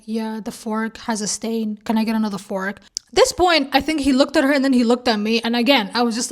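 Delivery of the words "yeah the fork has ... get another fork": blank, expressionless. Retold or imitated. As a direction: recite it blankly, dragging it out. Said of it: "there was no facial expression".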